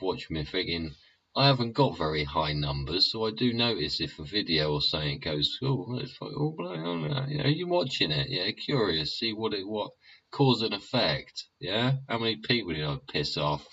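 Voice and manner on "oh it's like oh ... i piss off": mock surprised self. Voicing himself watching the stats.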